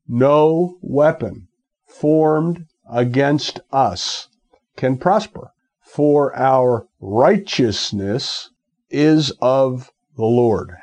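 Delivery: slow, deliberate preaching, word by word; emphatic scripture declaration. Real, not acted. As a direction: declare each phrase slowly, with weight.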